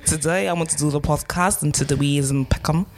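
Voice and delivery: badly faked Polish accent. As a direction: try a clumsy Polish accent. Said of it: "I'm so sorry to the Polish people".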